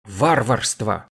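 usual speaking voice

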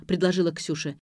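ordinary delivery

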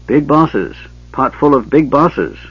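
gully dwarf voice. A narrator's reading.

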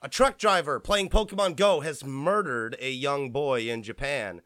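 blurting the news too bluntly; tactless, matter-of-fact headline; blunt harsh delivery. Real, not acted. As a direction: drop the grim news with no softening. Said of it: "that sounded really harsh".

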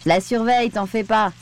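cheerfully assured, with a smile; smiling reassurance. A narrator's reading. Sam reassuring Aurore about the pilot, smiling confidence. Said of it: "affirma Sam avec un large sourire".

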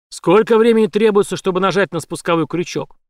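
громко, выше; давит вопросом; угрожающий вопрос. A narrator's reading. (грозный допрос)

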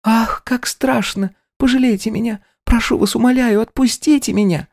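put-on a terrified girl begging to be let go; trembling young maid pleading. Maid begs in fear.

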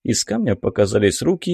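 plain reading voice

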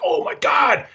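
put-on high-pitched starstruck kid; mock a little kid's amazement; retold childish amazement.

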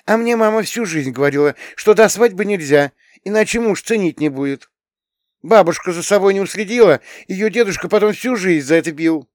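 put-on high, loud indignant girl; teen girl Tanya. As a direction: voice an upset young girl complaining. Tanya's voice held. (высокий громкий голос возмущённой девочки-подростка)

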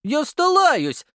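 put-on high, slow mouthguard-muffled child; snorting kid. A narrator's reading. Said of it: "фыркнул я".

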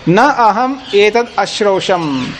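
slow Sanskrit recitation. Shown as a demonstration. Sanskrit quote recited slowly.

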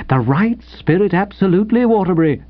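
hearty, lilting approval; cordial. Acted. Editor cheers on the offended writer, cordially. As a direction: applaud him blithely. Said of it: "said Sippy cordially".

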